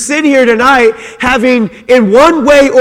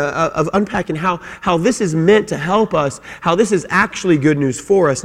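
ordinary talk

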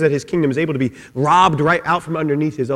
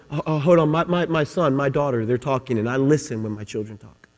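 soft, sinking lower as it goes; tender fatherly attention; 4 semitones lower, 7 dB quieter than usual. Acted. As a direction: hush others to hear your children. God pausing to hear his children.

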